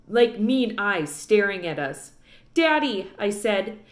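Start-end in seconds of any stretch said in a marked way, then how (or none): 2.5-3.1 anxious plea. A narrator's reading. Opal pleads with her father.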